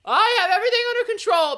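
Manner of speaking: high, hammed-up take-charge voice; mock confident Kate. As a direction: play the eager friend who swoops in. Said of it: "Kate was like".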